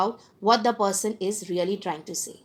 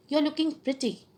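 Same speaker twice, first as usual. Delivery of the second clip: higher-pitched, half-hearted compliment; mismatched compliment; 4 semitones higher, 4 dB quieter than usual. Shown as a demonstration. Lecturer showing students tone against words, unconvincing compliment. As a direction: pay a compliment without sounding like you mean it. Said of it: "my tone of voice is not going with my word".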